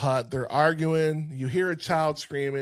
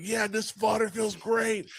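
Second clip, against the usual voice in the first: delighted; 7 semitones higher than usual. Retold or imitated. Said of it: "loving it".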